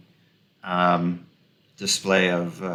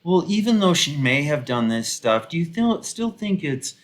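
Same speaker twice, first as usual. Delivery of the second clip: higher-pitched mock questioning; mock radio defenders; 4 semitones higher than usual. Commentator imitating radio hosts defending a founder, mockingly questioning. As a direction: lightly imitate pundits making excuses. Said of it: "They were like".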